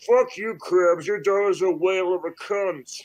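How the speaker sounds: small, cartoonish villain voice. Voicing SpongeBob characters in a back-and-forth insult bit: Plankton voice.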